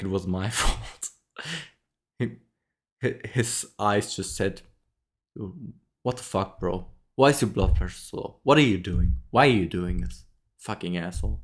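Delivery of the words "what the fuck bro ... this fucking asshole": louder mock scolding rant at a patient; a doctor imagined berating a patient, mock-furious and louder; mock angry doctor. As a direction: bark out the imagined scolding, half joking.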